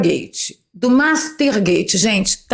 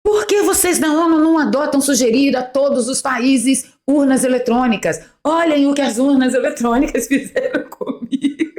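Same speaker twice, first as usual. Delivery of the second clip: higher, singsong advertising pitch; mock propaganda; 4 semitones higher than usual. Host mocking the president's voting-machine pitch, singsong mock propaganda. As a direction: parody a gushing testimonial, breaking into laughter at the end. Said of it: "a propaganda foi assim, ó".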